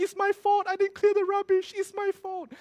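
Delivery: very high, hammed-up crying voice; imitated tearful wailing. Helper blaming himself to the angry boss, imitated crying. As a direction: wail it as a mock-sobbing confession. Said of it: "his helper at the side was crying".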